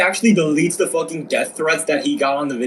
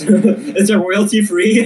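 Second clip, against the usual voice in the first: slow, laughing mock question; laughing through it; 3 semitones higher, 4 dB louder, much slower than usual. Mocking a streamer asking to use a photo, slow and laughing. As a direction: ask it while cracking up. Joking about blackmailed photo.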